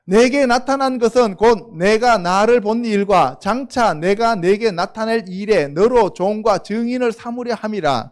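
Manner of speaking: slow, measured Bible reading; scripture reading. Acted. Preacher reading the verse to the congregation, slow and solemn. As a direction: lay each phrase of the verse down slowly.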